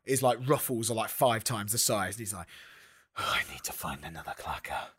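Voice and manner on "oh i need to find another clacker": low, softer put-on voice; older Shakespeare. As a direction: drop well down into a put-on voice. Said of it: "at this point with Shakespeare".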